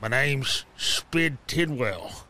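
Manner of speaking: talking round dice in mouth; mouth full. Real, not acted. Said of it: "put these D tens in my mouth".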